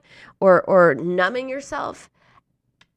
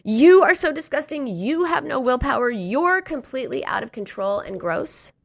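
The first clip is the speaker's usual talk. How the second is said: harsh self-criticism; 4 semitones higher than usual. Retold or imitated. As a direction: berate yourself, starting strong. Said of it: "remember how Emily said to herself".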